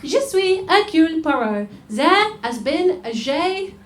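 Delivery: slow, badly faked French accent as Poirot; terrible French accent. Detective announcing the crime to the audience in a bad French accent. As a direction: ham up a French detective voice, slowly. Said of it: "a very terrible, um, French accent".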